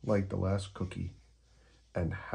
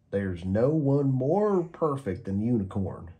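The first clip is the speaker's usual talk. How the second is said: slow, louder, adoring gecko; Gecko voice, gushing; 4 semitones higher, 5 dB louder than usual. Acted. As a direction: draw out the praise like a fan. Gecko character voice.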